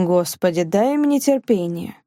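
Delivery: ordinary delivery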